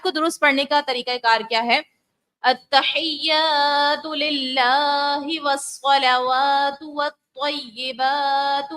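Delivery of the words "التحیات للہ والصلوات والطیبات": slow melodic tajweed recitation; slow chanted Quranic recitation. Shown as a demonstration. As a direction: recite slowly with full tajweed.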